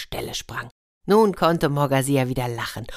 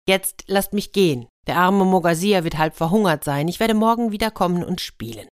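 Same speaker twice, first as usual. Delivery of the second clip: raised voice, pleading to be let go; calling out; 3 semitones higher, 4 dB louder than usual. Acted. The boy calls to the elves to let him go. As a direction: call out firmly but kindly. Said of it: "Da rief der Junge schließlich".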